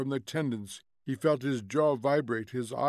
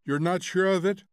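higher, louder, urgent question; alarmed challenge; 6 semitones higher, 5 dB louder than usual. A narrator's reading. Husband doubting wife's news of death, alarmed. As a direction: press for certainty.

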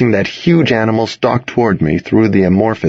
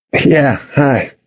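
slightly raised, sheepish greeting; 5 semitones higher than usual. A narrator's reading. Boy caught on the lawn greeting his ex, sheepish. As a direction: say hi a little sheepishly. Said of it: "I said sheepishly".

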